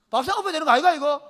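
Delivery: loud, high indignant outburst; husband blowing up, played for laughs; mock outrage. Mock outrage at disobedient wife.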